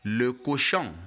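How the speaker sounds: "le cochon" as luh ko-shon, nasal ending; French model pronunciation. Shown as a demonstration. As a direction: model "le cochon" clearly for a learner.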